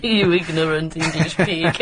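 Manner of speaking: sneering mock French voice; hammed-up insult; rude French stallholder.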